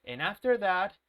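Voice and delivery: slow, stiff, every syllable of going to spelled out; overly careful speech. Shown as a demonstration. Teacher mocking unnatural textbook English, slow and stiff. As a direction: drag it out like a robot reading a textbook. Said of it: "No, people don't talk like that".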